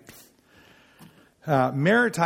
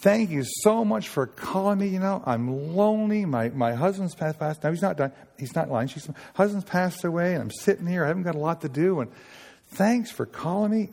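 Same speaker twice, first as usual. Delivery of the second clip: lonely widow; 4 semitones higher than usual. Retold or imitated. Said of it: "And then watch this approach".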